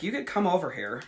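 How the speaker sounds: grudging, offhand invite with attitude; bitchy. Retold or imitated. Inviting the lurking mom into the group, bitchy. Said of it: "all fucking bitchy".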